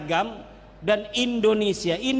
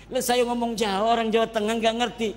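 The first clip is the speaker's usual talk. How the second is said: laughing; 2 semitones higher, faster than usual. Real, not acted. Laughing at own Javanese.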